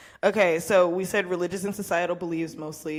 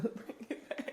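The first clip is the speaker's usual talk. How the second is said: whispered; 13 dB quieter than usual. Real, not acted. Trailing whispered joke.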